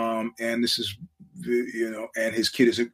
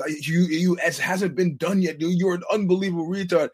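mock exasperated insult; 5 semitones higher than usual. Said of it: "He goes".

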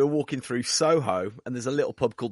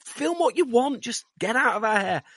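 impatient crew; 11 semitones higher than usual. Retold or imitated. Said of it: "So we're like".

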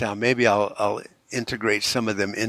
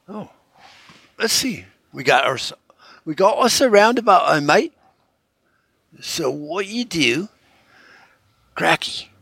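high, hammed-up Aussie accent, higher and louder; over-the-top Aussie accent, pitched up; 8 semitones higher, 4 dB louder than usual. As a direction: play a cheerful Aussie tour guide, laying the Australian accent on thick. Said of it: "Get me Aussie accent on".

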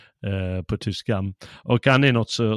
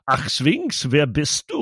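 lightly put-on German accent, a bit higher; German echo voice; 4 semitones higher, slower than usual. The echo at the Sphinx answers Peer, mock German accent. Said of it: "en röst som svarar".

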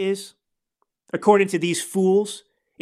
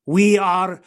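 mock Schwarzenegger-like accent; 2 semitones lower, 3 dB louder, much slower than usual. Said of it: "he sounds like Arnold Schwarzenegger".

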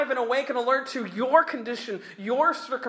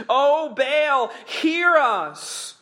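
raised cry to Baal, higher and louder; 5 semitones higher, 5 dB louder, much slower than usual. Acted. Preacher voicing prophets crying out to Baal. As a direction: call out to a silent god, pleading. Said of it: "they are crying out".

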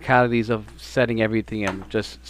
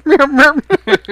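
cat meow; 11 dB louder than usual. Pretend. Cat noise repeated.

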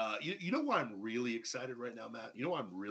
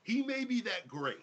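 mock grudging praise; 8 semitones higher than usual. Mock grudging praise, rising pitch.

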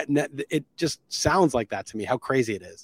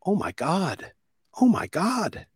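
high-pitched alarmed Karen gasps; mock a panicky Karen, pitch way up; 8 semitones higher, slower than usual. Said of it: "in the best Karen voice I had in my head".

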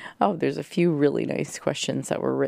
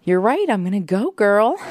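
higher, louder psyched-up cheer; pumped-up reply; 5 semitones higher, 4 dB louder than usual. Retold or imitated. She answers her gym friend, psyched-up and cheering. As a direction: hype yourself up like you're ready to go. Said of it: "And then I said".

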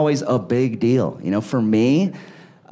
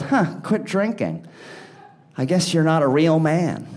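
put-on scornful kid. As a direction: dismiss him with a sneer. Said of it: "she goes".

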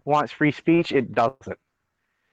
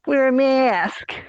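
shrill mock nag; 13 semitones higher, much slower than usual. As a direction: screech it like a panicked scold. Mocking pandemic panic.

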